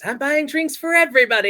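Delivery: squeaky high-pitched and loud; high goofy character voice. Retold or imitated. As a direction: throw it up high like a cartoon. Retold character line, high.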